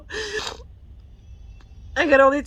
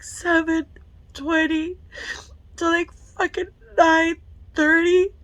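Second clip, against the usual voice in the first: tearful; 3 semitones higher, slower than usual. Real, not acted. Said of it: "I'm tearing up".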